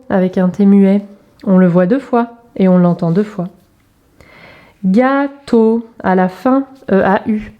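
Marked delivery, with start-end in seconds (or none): 4.8-5.9 "Gâteau" in two separated beats; drawn-out teacher's demonstration; syllable by syllable. Shown as a demonstration. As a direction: stretch each syllable for young readers. Exercise word for young readers.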